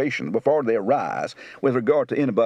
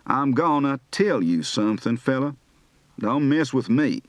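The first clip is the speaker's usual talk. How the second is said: Kentucky Southern, "something" as "somethin'"; Kentucky Tennessee accent. Shown as a demonstration. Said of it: "General East Coast, Kentucky, Tennessee".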